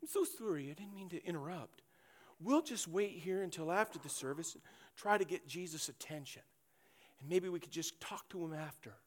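hushed meek sorry; overly apologetic. Acted. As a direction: apologize like a polite Canadian afraid to intrude. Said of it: "kind of what I would call the Canadian option".

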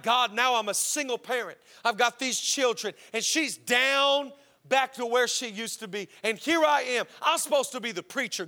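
mildly exasperated complaint to God; acted frustration. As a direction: plead your case, a touch put-upon. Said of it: "Hosea's frustrated with God".

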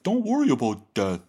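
high, put-on voice brushing worries aside; mock Stoic reassurance. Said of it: "They're just like".

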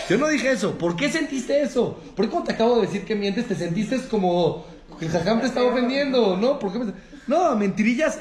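ofendido. Acted. Reacción ofendida actuada.

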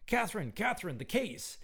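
put-on high calling in a thick Lithuanian accent; a Lithuanian drummer calls out to his daughter; Lithuanian father calling. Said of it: "calling to his young daughter in a thick Lithuanian accent".

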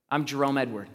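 says his full name with easy confidence; confident name, owned without doubt. Shown as a demonstration. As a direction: own it, proud and steady. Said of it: "I say it confidently".

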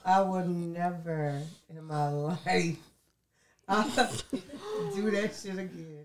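laughing. Real, not acted. Exhausted after laughing fit.

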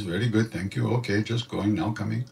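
soft Indian English accent, short broken phrases; a hint of Indian English accent. Shown as a demonstration. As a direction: mimic her own Indian-English pidgin. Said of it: "I spoke like this".

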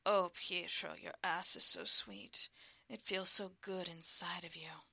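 a hint of passionate moaning; moaning endearments. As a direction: moan it to your lover. Lover moaning during sex.

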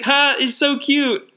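high, drawn-out mock coo; mock cooing onlooker. Imagined onlooker gushing over the kid, mock cooing.

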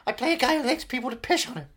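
high-pitched, eager oversharing actor; Paul Giamatti impression. Actor explaining his Billions role, high and eager. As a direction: confess it all in a high voice.

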